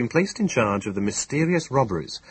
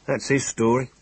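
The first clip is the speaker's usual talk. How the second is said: higher-pitched, hinting at doubt; queer note; 4 semitones higher than usual. A narrator's reading. Inspector reporting a constable's story, with a queer note. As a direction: add a faintly odd, questioning note. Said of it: "with a queer note in his voice".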